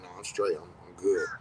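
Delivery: quoting him. Retold or imitated. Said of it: "Sometimes he like".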